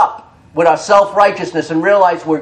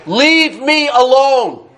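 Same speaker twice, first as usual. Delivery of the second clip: higher, drawn-out "leave me alone"; acted-out stubborn refusal, stretched and raised; retold brush-off; 4 semitones higher, much slower than usual. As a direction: mimic someone slowly waving you off. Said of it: "he'd say".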